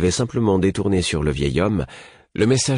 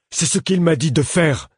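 high-pitched indignant little man; angry protest; 11 semitones higher, 3 dB louder than usual. A narrator's reading. Little man defending himself to the prince, angry. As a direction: protest hotly in a much higher voice. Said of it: "protesta le petit homme avec colère".

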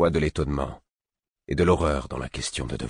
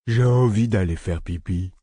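lightly voiced simple man, higher; childlike voice; 5 semitones higher, 4 dB louder than usual. A narrator's reading. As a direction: ask like a child. Childlike simple character speaks.

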